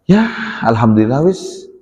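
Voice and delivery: mock half-hearted reply with uneven intonation; half-hearted alhamdulillah. Trader answering how sales went, half-hearted. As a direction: give a token, insincere thanks to God. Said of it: "tapi intonasinya berbeda".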